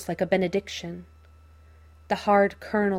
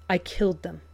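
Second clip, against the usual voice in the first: flat; faster than usual. Acted. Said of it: "he says flatly".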